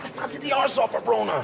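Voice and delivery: high-pitched blurted admission; desperate confession. Acted. Confessing a crush to a friend, desperate and high. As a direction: plead your crush, voice leaping up.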